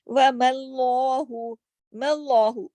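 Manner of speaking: मल्लाहु with thick dark ल; slow recited मल्लाहु; heavy lam. Shown as a demonstration. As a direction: darken ल in मल्लाहु. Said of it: "लाम को मोटा किया".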